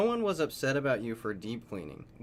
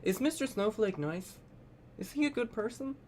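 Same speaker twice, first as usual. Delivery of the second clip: high, sing-song mock asking; mocking questioner; 9 semitones higher than usual. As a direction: parody the eager commenters. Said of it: "right as everyone is like".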